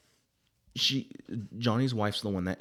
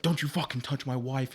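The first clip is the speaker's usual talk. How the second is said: acted angry warning; 6 semitones higher than usual. Acted protective husband confronting intruder.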